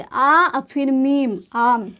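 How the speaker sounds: ऐसे आ और फिर मीम said slowly, sound by sound; slow spelled-out demo. Shown as a demonstration. Teacher slowly building आम for students. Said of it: "मुंह थोड़ा खोल कर पढ़ेंगे".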